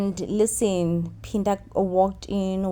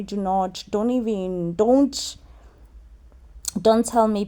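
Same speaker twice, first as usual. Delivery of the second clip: raised, sharp, dismissive rant; mock furious scolding. Zama cutting off Phinda, mock furious rant. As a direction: tell him off, no interruptions.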